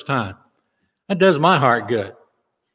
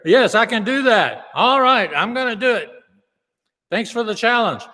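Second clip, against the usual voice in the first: eager can-do voice; 7 semitones higher than usual. Retold or imitated. Mocking a can-do attitude.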